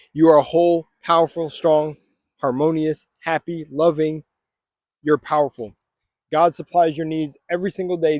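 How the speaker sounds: steady, deliberate affirmations; affirmation reading. Acted. Vlogger leading viewers through affirmations, steady and declarative. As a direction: declare each one with calm conviction.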